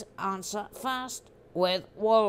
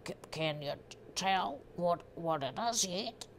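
softer, halting Australian accent; 3 semitones lower, 4 dB quieter than usual. Shown as a demonstration. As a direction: attempt an Australian accent on request. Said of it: "please read that in an Australian accent".

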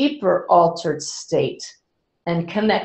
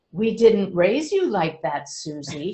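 disapproving mother. Retold or imitated. Mother answering the audience about her channeling daughter, mildly disapproving. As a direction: gently scold your grown daughter. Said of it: "shook her head and she said".

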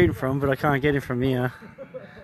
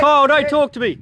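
excited; 10 semitones higher, 5 dB louder than usual. Real, not acted. Hit in firefight.

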